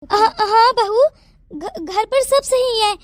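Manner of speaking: slow, halting reassurance; flustered stammer. Acted. Aunt assuring the daughter-in-law all is well, flustered. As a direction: stumble over the first words, caught off guard.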